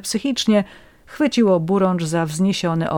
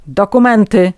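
stern demand, a bit louder; mild police bark; 2 semitones higher, 8 dB louder than usual. A narrator's reading. Policeman demanding papers from a vagrant, stern bark. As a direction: bark the order like a cop. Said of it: "nalegał drugi policjant".

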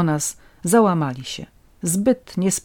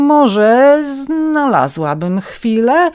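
slow, louder, higher opening with drawn-out words; catching breath; 7 semitones higher, 6 dB louder, much slower than usual. A narrator's reading. Guest to the host after losing her breath, drawn out. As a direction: draw it out as breath slowly returns. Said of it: "kiedy w końcu udało mi się odetchnąć".

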